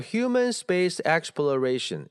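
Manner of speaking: slack, spaced-out "human space exploration"; too loose. Shown as a demonstration. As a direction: give every word of "human space exploration" equal room. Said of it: "也太松散了". (松散地读human space exploration)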